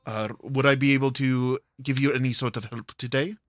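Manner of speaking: quick, courteous offer of help; brisk and polite, in character; Octavia. Acted. Game character greeting someone they can help, courteous. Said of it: "in my Thursday".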